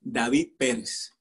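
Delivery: "David Perez" as da-VEED PEH-res; Spanish pronunciation. Shown as a demonstration. Teacher honouring a student's heritage, "David Perez" in Spanish. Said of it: "say it the way it's meant to be said".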